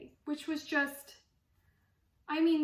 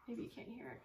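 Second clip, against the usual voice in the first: softer aside; 14 dB quieter, much faster than usual. Real, not acted. Quieter aside about dog.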